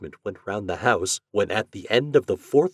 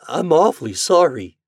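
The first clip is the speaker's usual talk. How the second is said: high-pitched, apologetic falter; 9 semitones higher, 8 dB louder than usual. A narrator's reading. Boy apologising to store owner for his turkeys, faltering. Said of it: "faltered Homer".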